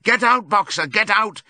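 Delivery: high, loud urgent yelling; crowd's cry. A narrator's reading. All the animals calling to Boxer, urgent cry. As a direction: take up the cry in panic. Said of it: "All the animals took up the cry of".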